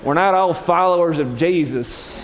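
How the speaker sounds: high, loud, half-laughing rant; cursing denial. Acted. Peter swearing at the accusers, loud hammed-up rant. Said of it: "he began to curse and swear".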